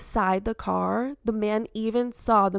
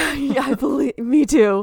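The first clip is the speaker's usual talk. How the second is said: laughing; 5 semitones higher, 7 dB louder than usual. Real, not acted. Chills at the rescue story.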